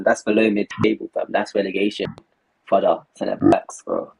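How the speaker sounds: low sample rate; robotic, glitchy headset audio. Real, not acted. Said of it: "AirPods, you're sounding like some robot".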